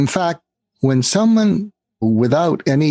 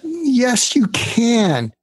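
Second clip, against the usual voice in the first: "Yes" jumps much higher, "you can" stays high; emphatic reassurance; 11 semitones higher, much slower than usual. Real, not acted. To listeners who doubt themselves, a high emphatic "Yes, you can". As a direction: insist warmly that they can do it.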